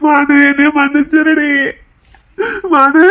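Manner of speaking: sobbing plea for forgiveness; tearful apology. Acted. Grieving man begs Maanu to forgive him, crying. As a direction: beg forgiveness through tears. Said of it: "இன்னைக்கு அவன் அழுகும் போது".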